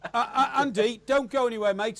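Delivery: talking through laughter; laughing. Real, not acted. Host laughs while talking.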